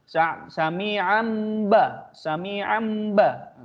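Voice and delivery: sami'am ba very slow, n turned to m before ba; iqlab demo. Shown as a demonstration. Teacher showing iqlab to students. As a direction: stretch sami'am into ba with closed lips. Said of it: "langsung persiapan huruf ba".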